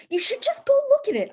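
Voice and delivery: high, fast, wheedling put-on voice; sweet coaxing. Wife coaxing husband to see the house, high sweet wheedle. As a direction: coax him like you're selling it.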